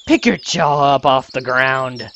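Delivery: put-on slightly deep girl's line, too manly; lightly voiced hothead, coming out manly; too-manly character voice. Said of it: "That sounded too manly".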